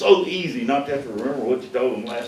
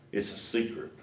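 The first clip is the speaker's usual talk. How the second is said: hushed, breathy secret, imitating the salesman; retold whisper; 4 semitones lower, 13 dB quieter than usual. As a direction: lean in and whisper it like a confided secret. Salesman leans close, tells secret.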